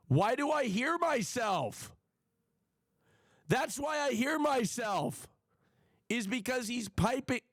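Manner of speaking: high-pitched, frustrated outburst; exasperated. Real, not acted. Streamer discovering why they hear themself, real exasperation. Exasperated at echo from mic setup.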